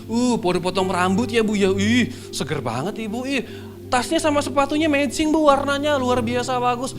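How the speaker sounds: high, gushing compliments; hammed-up sugary small talk; two-faced flattery. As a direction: gush over someone with exaggerated delight. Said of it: "Kalau di depan orang".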